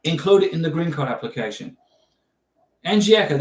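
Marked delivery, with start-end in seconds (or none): 2.9-3.4 attempted South African accent, a bit Australian; Australian-leaning accent. Shown as a demonstration. Vlogger addressing Angieka in a rough Australian-leaning South African accent. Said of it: "that's a bit Australian".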